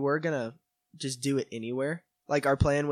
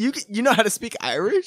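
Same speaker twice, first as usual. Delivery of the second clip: surprised; 9 semitones higher, 6 dB louder than usual. Real, not acted. Surprised question about Irish.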